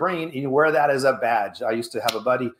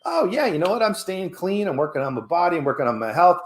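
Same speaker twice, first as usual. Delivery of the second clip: high, proud and upbeat; very proudly; 4 semitones higher than usual. Pretend. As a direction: say it with pride in your choice. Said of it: "very proudly".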